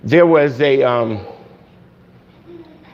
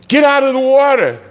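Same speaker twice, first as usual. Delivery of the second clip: captain shouting; 9 semitones higher than usual. Acted. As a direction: yell at him to get out now. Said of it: "the captain came out and said".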